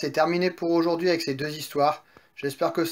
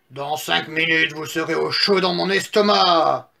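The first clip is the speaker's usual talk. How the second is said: wolf crying out; 3 dB louder than usual. Acted. Wolf on the roof threatens pigs, gloating cry. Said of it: "s'écria-t-il".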